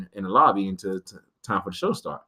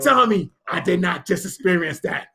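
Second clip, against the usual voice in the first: disbelief; 7 semitones higher than usual. Retold or imitated. Starstruck disbelief.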